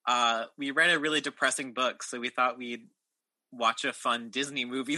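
normal talking voice

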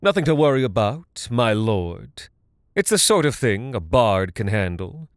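quick, sneering reassurance; false comfort with contempt. Acted. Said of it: "Talarn sneered".

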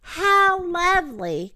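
high, slow, savoring cry; wolf faking grandma. A narrator's reading. Wolf in bed hearing of the food, greedy fake grandma. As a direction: draw it out high, relishing the treat. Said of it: "cried the wolf, licking his lip".

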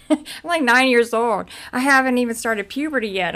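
high, loud disbelief; indignant retold disbelief; incredulous protest. Protesting the accusation made against her.

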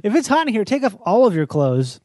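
hammy radio DJ. Pretend. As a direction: pump it up like a radio jock. Mock radio DJ patter.

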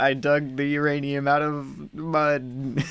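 slow mock movie-villain line; lightly voiced villain, drawn out; mock Russian villain. Co-host parodying the villain's dumb lines, mock intimidating. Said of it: "he's always just saying these stupid things".

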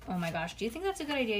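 usual speaking voice

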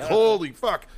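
high, loud stunned exclamation; shocked awe. Retold or imitated. Sergeants reacting to the screaming, loud shocked awe. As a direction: imitate a whole group aghast.

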